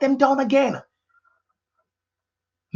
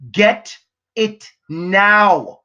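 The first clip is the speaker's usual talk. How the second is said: urgent loud command; 4 dB louder, much slower than usual. Real, not acted. Coach urging listeners to act now, slow loud shout. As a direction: Get it now, slow and louder, each word hit. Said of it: "I don't know why I'm shouting".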